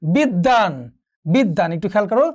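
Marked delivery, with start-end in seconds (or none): 0.0-0.7 বিদ্যান said as bid-dan, with a double d; careful demonstration of বিদ্যান with doubled d; doubled consonant. Shown as a demonstration. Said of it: "দ্বিত্ব উচ্চারণ হচ্ছে।". 1.2-1.7 বিদ্যান said as bid-dan, with a double d; doubled consonant. Shown as a demonstration. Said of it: "দ্বিত্ব উচ্চারণ হচ্ছে।".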